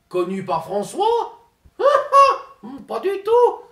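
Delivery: laughing through a shocked denial; high laughing protest. Acted. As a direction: squeal with laughter while denying it.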